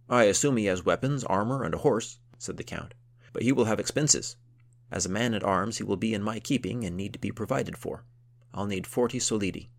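gruff count voice. Acted.

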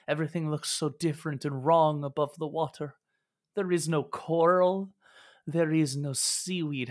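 a grateful, bewildered sea creature far from home; sea creature NPC. Acted. GM voicing the rescued sea creature to the party, lightly lifted and wondering.

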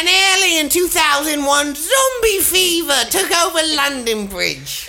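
high, slow dramatic narration; mock documentary narrator. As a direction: narrate like a cheesy horror trailer.

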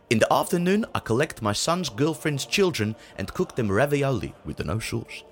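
put-on light Dutch accent, deadpan. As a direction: read it in a mild Dutch accent. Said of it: "I hope that the Dutch voice will be".

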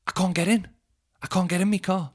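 high mock fussy old woman voice; mock old lady.

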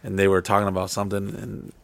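halting, filler-heavy account; cagey recounting. Real, not acted. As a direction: give up just enough, hesitantly. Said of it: "trying to give the police just enough".

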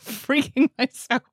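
sudden high demon shriek. Real, not acted. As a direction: screech like a demon. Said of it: "scared myself with my own demon voice".

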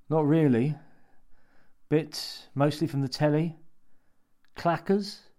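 timid high voice. A narrator's reading. Paul voiced.

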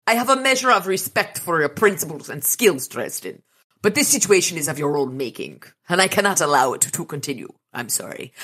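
badly attempted Spanish accent that drifts toward Russian; shaky attempt at a Spanish accent; Antonio Banderas. Vampire Ortega warning Dresden, badly attempted Spanish accent. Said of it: "my best Antonio Banderas voice".

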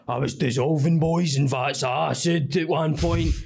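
lightly voiced Glasgow hard man; James English style. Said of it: "do James English style of".

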